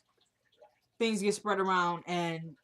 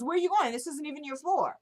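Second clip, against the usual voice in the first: high, mock-innocent call; retold teasing, higher voice; taunting; 6 semitones higher than usual. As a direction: needle them with a pitched-up question. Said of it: "She's taunting her the entire time".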